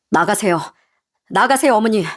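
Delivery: husband's composed dismissal; cold, level command. Acted. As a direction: send your mother out, coolly. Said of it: "남편이 냉정하게 나가라고 하니".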